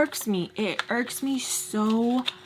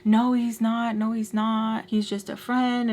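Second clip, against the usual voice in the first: slightly raised, quick repeated protest; insistent denial; slower than usual. Retold or imitated. Friend defending the guy in an argument, insistent denial. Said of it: "and she's like".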